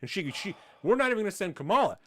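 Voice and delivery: fast, dismissive mock Biden; hammed-up evasive politician. Speaker mocks Biden refusing to visit Ukraine, fast mock. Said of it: "Joe Biden is like".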